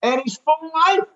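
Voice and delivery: climbing high with delight; gushing praise. Retold or imitated. Inner thought quoted, awestruck.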